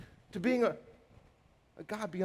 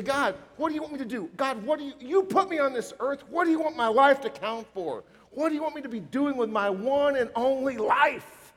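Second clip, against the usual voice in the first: fervent prayer; 6 semitones higher, 5 dB louder than usual. Acted. Preacher voicing a prayer aloud.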